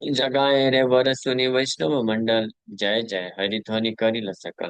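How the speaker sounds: slow, measured scriptural recitation; verse recitation. Acted. Preacher reciting the verse of Jagai being saved, slow recitation. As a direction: draw out each line of the sacred verse.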